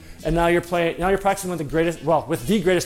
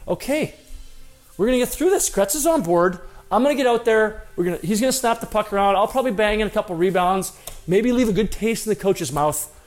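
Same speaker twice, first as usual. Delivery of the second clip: excited pep talk; 4 semitones higher than usual. Retold or imitated. Hopeful inner pep talk.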